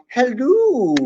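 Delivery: a lightly imitated British "Hello" ending in "lu". Repeating the viewer's greeting, hint of British accent. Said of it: "makes it sound like she's British".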